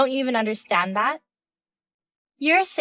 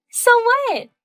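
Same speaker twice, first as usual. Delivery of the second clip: much higher, louder brazen snap; defiant retort; 11 semitones higher, 5 dB louder than usual. Acted. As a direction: toss it back without shame.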